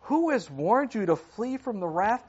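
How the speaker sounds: booming prophet's rebuke; fierce denunciation. Acted. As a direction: hurl it at the Pharisees. John denouncing the Pharisees.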